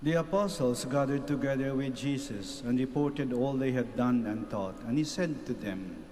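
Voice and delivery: measured, solemn proclamation to the congregation; gospel reading. Acted. Priest proclaiming the gospel to the gathered faithful, solemn reading. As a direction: read it out like scripture at Mass, steady and unhurried.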